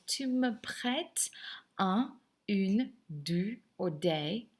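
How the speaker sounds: "Tu me prêtes" said slowly, syllable by syllable; "un, une" spaced out as careful French models; pronunciation model. Shown as a demonstration. Teacher going over pronunciation for students, slow careful model of "Tu me prêtes". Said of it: "pronunciation of these things".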